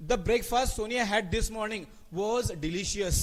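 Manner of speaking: very slow, word by word; dictating the corrected sentence slowly; slow dictation. Shown as a demonstration. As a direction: read it slowly so they can write it down. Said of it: "slow dictation of sentence".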